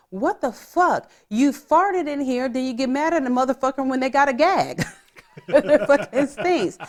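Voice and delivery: mock-outraged, half laughing at the smell; retold angry outburst. Sister in the waiting room scolding the one who farted, mock outrage. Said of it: "Amanda's like".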